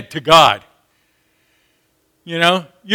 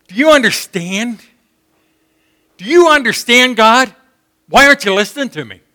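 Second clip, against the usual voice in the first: venting to God; 3 semitones higher than usual. Retold or imitated. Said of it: "He was venting to God".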